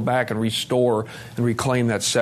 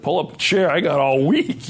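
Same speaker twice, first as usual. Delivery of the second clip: eager welcome; 5 semitones higher, 4 dB louder than usual. Retold or imitated. Eager welcome to struggling man.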